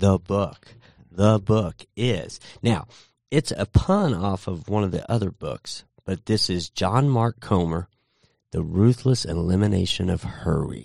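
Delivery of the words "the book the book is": slow, late-night FM radio DJ voice. The speaker introducing the book, in his late-night DJ FM voice. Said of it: "I'm in my late night DJ FM voice".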